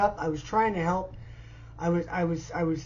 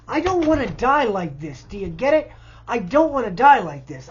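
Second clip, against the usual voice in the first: louder, pleading, near breaking; real desperation rising in volume; desperate plea; 7 dB louder than usual. Real, not acted. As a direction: beg to be heard, louder on the repeat.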